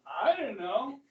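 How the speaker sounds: sheepish line spoken through a laugh; laughing excuse. Retold or imitated. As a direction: laugh it off, caught out. Teacher voices Washington's embarrassed excuse.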